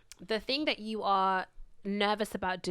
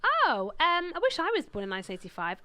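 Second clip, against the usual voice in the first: higher-pitched mock Bristolian; Bristolian accent; 6 semitones higher than usual. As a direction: imitate a wistful Bristol pharmacist. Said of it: "well, she was Bristolian".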